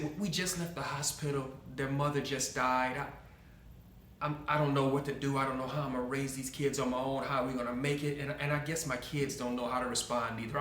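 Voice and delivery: understated, overwhelmed and apologetic; subdued grieving father. Retold or imitated. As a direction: lightly voice a lost, newly widowed dad. Bereaved father explains his children's behavior.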